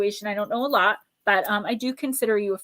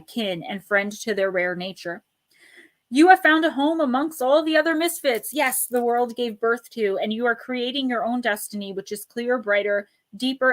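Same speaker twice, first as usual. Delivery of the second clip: mystical card reading. Acted. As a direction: read it like a spoken blessing, unhurried. Oracle card reading, held mystical voice.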